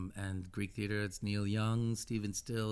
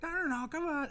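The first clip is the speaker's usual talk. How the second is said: bossy diva. Retold or imitated. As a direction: play a singer taking charge of the band. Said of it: "And she's like".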